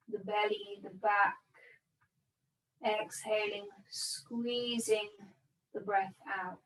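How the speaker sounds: calm, unhurried meditation guidance with long pauses; measured yoga-teacher breathing cues; guided meditation. Real, not acted. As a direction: guide them gently into body and breath, leaving space between phrases. Guides breath and body awareness.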